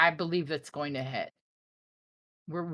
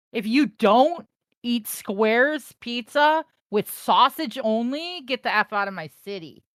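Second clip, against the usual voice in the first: mock outrage; 4 semitones higher, 9 dB louder than usual. Streamer telling a viewer off about pizza, mock furious. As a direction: bark it like an offended local, half joking. Mock Chicago pride rant.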